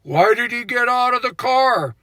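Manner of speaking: a lightly voiced grave documentary narrator; mock the solemn narrator asking why. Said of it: "the narrator is behind him saying".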